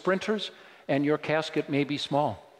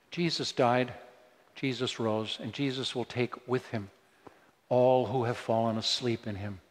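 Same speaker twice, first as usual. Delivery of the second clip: low, soft words of consolation; gentle comfort; 4 semitones lower, 4 dB quieter than usual. Shown as a demonstration. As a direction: offer it quietly to someone grieving. Models gentle words for mourners.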